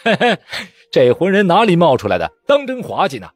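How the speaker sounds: mock him as a clown; high mocking jeer; jeering laughter. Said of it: "纷纷大笑起来，骂道".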